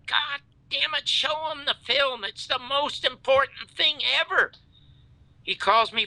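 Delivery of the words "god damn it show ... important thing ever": higher-pitched, heated retelling of an angry order; mock-heated insistence, raised pitch; exasperated demand. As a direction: replay your frustration down the phone, pitch up. Retold angry demand to Dick.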